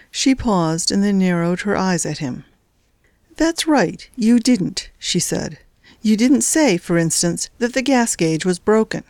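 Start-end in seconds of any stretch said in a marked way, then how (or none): 3.4-9.0 high mocking lilt, ending in a hushed hiss; sarcastic jab. Wife needling husband about the gas gauge, sarcastic. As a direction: drip sarcasm, pitch up.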